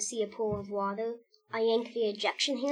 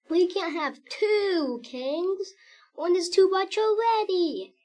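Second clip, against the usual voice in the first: high, loud sobbing plea; 9 semitones higher, 7 dB louder, slower than usual. Acted. Quackers weeps about two kings, high sob. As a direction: wail it out through tears. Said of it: "he sobbed".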